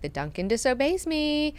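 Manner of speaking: high, incredulous complaint; mock indignant complaint; upset ruler. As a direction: play an upset ruler, mildly outraged. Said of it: "He is super upset".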